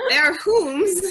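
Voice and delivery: high, loud, laughing lady voice; posh lady voice. Pretend. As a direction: play a fancy lady asking whom's. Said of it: "I have kinda like two ladies".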